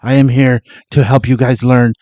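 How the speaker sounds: hint of a mediocre Asian accent; mock Asian accent. Mimicking Raiden greeting the fighters, mock Asian accent. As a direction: breathe out through a lightly faked Asian accent. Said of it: "Why are you giving him an accent?".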